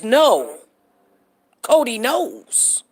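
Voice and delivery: "No", then a pause, then a slow "Cody knows"; quoting her exact delivery. Shown as a demonstration. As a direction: draw out "Cody knows" after a separate "No". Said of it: "I said it the way she said it".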